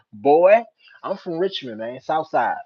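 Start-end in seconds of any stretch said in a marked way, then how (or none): 0.1-0.6 loud, high mock-indignant "boy"; shouted BOY. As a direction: throw the word back at full volume. Echoing the capitalised boy at viewer.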